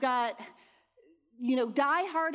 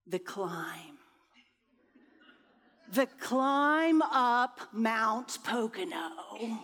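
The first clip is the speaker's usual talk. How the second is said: whisper; much slower than usual. Acted. Ominous whispered name of the climb.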